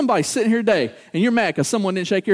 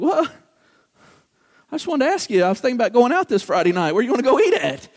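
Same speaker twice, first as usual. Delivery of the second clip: a light mock of a startled partner; innocent surprise; faster than usual. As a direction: sound caught off guard, just asking.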